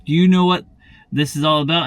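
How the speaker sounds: lightly voiced rude lady. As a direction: imitate a pushy woman demanding answers. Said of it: "there's some rude people like this".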